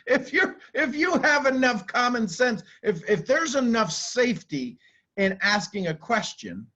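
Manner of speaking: lightly voiced giddy amygdala, starting high with a laugh; a relieved brain part, laughing at first. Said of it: "the amygdala goes".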